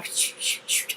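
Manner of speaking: unvoiced hissing sh sounds; breathy sh-like bird noise; bird whistle attempt. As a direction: try the grackle's whistle. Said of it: "right before they make the whist".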